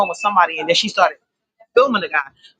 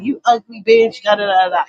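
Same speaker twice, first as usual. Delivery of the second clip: retold cursing; 3 dB louder than usual. Man on the bus cursing out the girls, mock cursing. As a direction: imitate a man cussing, half-hearted. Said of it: "just cursing them out".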